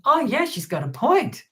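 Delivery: high-pitched mimicked realisation; imagined convinced viewer. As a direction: voice a persuaded viewer, pitched well up. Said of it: "plenty of people watching that thinking".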